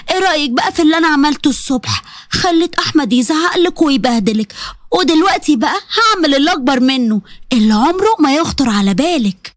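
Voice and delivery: a hint of a sly villainess; gloating mother-in-law. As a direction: savour the threat.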